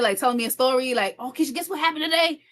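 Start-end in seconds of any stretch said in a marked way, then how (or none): 1.2-2.4 quick, high, eager question; excited brother. Retold or imitated. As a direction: imitate a little brother bursting with news. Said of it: "he gets really excited".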